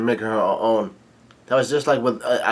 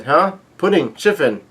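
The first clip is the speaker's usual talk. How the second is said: mock surprise; 5 semitones higher, 4 dB louder than usual. Acts Nami's surprise at arrivals.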